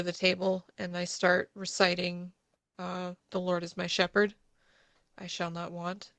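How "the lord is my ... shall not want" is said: steady calm prayer with hidden anxiety; calm psalm, a little shaky; calm recitation. Acted. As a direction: recite it calmly to soothe the child. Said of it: "just very calmly".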